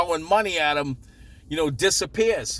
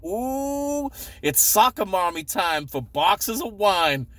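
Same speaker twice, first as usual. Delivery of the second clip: high, slow, drawn-out Ooh then a mock soccer mom line; mocking yuppie; 4 semitones higher, slower than usual. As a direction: tease like a yuppie mom at the liquor store. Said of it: "I'll crack some yuppie jokes".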